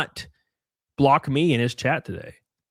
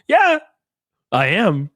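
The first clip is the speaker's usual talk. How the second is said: gleeful taunt; 6 semitones higher, 6 dB louder, slower than usual. Retold or imitated. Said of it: "And I'm like".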